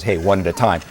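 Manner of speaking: talking scale voice. Retold or imitated. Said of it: "talking scale ... says".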